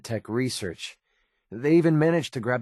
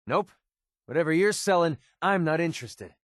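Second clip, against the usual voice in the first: higher-pitched, impatient refusal; dismissive brush-off; 6 semitones higher than usual. Acted. Turning away someone selling, dismissive. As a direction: wave the seller away.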